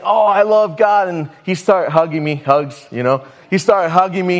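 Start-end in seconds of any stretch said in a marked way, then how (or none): 0.0-1.1 higher-pitched effusive cry; imitating a man gushing with devotion; gushing drunk man. Preacher imitates drunk man hugging him in church, gushing. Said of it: "he started saying".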